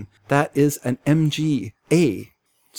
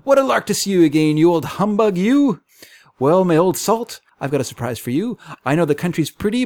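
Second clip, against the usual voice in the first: put-on gruff old fisherman; 4 semitones higher than usual. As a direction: boast cheerfully over everyone. Jovial visitor greets the captain.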